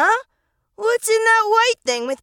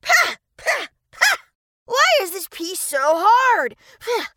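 spitting out food noisily; spitting sounds; 3 semitones higher than usual. Acted. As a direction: spit the word out. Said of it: "spat out the pea as he talked".

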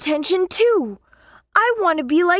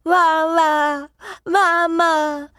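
put-on baby talk; much slower than usual. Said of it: "copying how his little brother talked".

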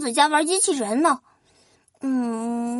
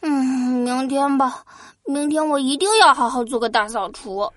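nose pinched, high whiny prince; pinching nose; 12 semitones higher than usual. Acted. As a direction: talk through a pinched nose. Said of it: "拖延王子捏着鼻子说".

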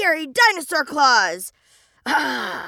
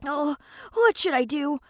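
anxious; 3 semitones lower, 3 dB quieter, faster than usual. Acted. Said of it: "turned round and round anxiously".

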